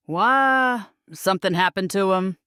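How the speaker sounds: a sudden worried question, lightly voiced; concerned. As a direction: let a little worry slip into it. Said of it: "his voice betraying concern".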